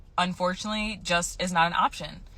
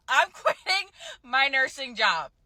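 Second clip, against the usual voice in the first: higher-pitched, giddy announcement; excited; 6 semitones higher than usual. Real, not acted. Nurse telling viewers she is quitting, excited. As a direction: squeal the news out with excitement. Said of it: "You sound so excited".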